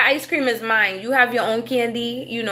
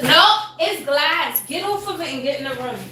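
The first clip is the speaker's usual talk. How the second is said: urgent scolding; 6 semitones higher than usual. Real, not acted. Warning child away from glass.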